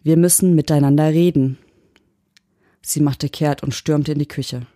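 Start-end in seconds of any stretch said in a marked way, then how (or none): 0.0-1.6 patient robotic insistence; mechanical patience. Acted. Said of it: "sagte ich mit mechanischer Geduld".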